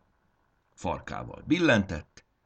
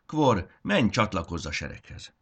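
high, loud order on menj; commanding; 3 semitones higher, 4 dB louder than usual. Acted. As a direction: order him off with authority. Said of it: "adta ki a parancsot".

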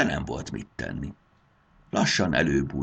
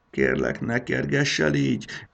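pleading; 9 semitones higher than usual. Acted. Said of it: "könyörgött".

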